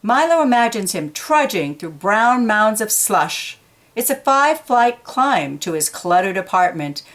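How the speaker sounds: put-on animated storyteller voice for young listeners; reading to children. A narrator's reading. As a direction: read it like a picture book to kids. Reading picture book aloud.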